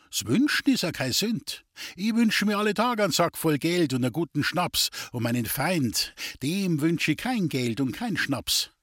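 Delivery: a hint of a wheedling gypsy fortune-teller; sly gypsy. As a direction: tease him with the rival's luck. The gypsy Duli tempts Friedel.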